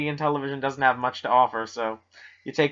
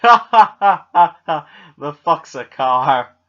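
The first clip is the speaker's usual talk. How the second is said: mock disbelief; 7 dB louder, much slower than usual. Joking disbelief.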